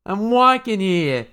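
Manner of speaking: high, slow, hammed-up holler; Gilda. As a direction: call it out high with long vowels. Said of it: "they run into Gilda, who's like".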